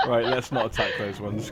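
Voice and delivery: laughing. Real, not acted. Talks while still laughing.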